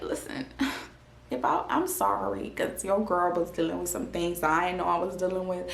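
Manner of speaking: sheepish laugh, breathy and soft; laughing apology. Retold or imitated. Calling her friend to apologize, laughing softly and sheepishly. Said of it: "I called her to be like".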